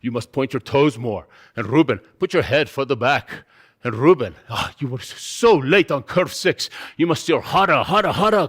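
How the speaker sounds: put-on stern coach with a heavy Austrian accent; Arnold Schwarzenegger. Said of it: "sounds like Arnold Schwarzenegger".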